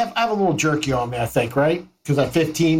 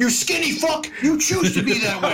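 laughing insult; 8 semitones higher than usual. Acted. Insulting a guard in character.

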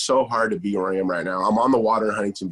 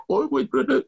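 put-on high, disbelieving squeal of the kids; mock outrage from a kid; kids' shocked protest. Kids protesting lost video games.

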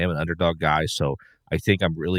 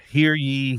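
town crier; 7 semitones higher than usual. Pretend. Mock proclamation opening coach's pick.

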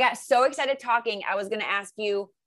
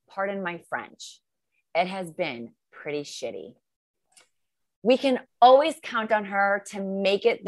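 nervously reading love poem; 4 dB louder, slower than usual. Pretend. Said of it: "to read you my poem".

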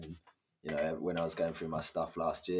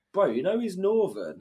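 laughing; 13 semitones higher, 10 dB louder than usual. Retold or imitated. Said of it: "they're like".

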